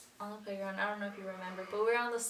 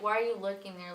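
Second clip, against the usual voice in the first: plain-pitched mock challenge, no flirting; not flirty. Shown as a demonstration. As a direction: ask it straight, without any playful lift. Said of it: "Not even like".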